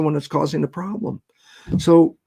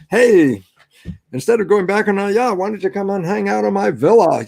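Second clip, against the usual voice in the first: pickup line; 7 semitones higher, 4 dB louder than usual. Retold or imitated.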